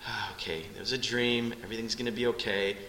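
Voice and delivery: put-on soft, hushed reassurance to a scared child; calm them back to sleep gently; soothing parent. Parent soothing a child after a bad dream, soft and hushed.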